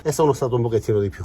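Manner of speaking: out of breath from crouching; winded, catching breath between words. Real, not acted. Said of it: "Scusate il fiatone".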